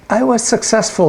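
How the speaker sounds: a hint of an eager servant reporting; pleased little imp. Imp reporting success to its master, pleased.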